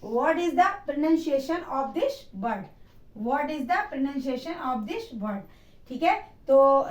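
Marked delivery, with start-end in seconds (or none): 0.1-2.6 very slow, careful dictation pace; teacher models the formal question slowly; slow model sentence. Shown as a demonstration. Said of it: "इसे English में कैसे बोलेंगे". 3.3-5.4 very slow, careful dictation pace; teacher models the formal question slowly; slow model sentence. Shown as a demonstration. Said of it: "इसे English में कैसे बोलेंगे".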